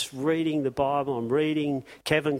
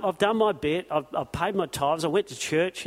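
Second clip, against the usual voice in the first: smug churchgoer; 3 semitones higher than usual. Retold or imitated. Preacher mocking a half-hearted churchgoer, smug. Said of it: "Just enough to keep God happy".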